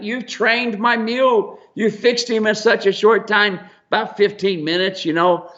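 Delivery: high, gushing lady voice; mock excited woman. Mule owner thanking Steve, high and gushing.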